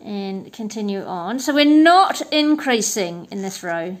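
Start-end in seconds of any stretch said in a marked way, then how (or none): 1.4-4.0 talking around a stitch marker held in the teeth. Real, not acted. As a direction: speak with something clenched between your teeth. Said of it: "I've got my stitch marker in my teeth".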